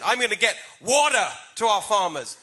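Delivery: water in a put-on American accent, flapped t and hard r: "wadder"; British speaker puts on a mild American accent. Shown as a demonstration. British candidate shows voters her American accent. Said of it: "you've gotta really say it in an American accent".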